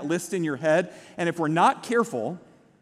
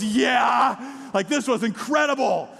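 put-on excited child shout; 4 semitones higher, slower than usual. Daughter shouting after sledding.

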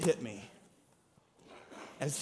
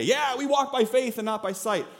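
tossed off lightly, a bit higher; glib and easy; 5 semitones higher than usual. Shown as a demonstration. Preacher mocks how easily believers say the verse, glibly. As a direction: say it like it costs nothing. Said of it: "that's really easy to say".

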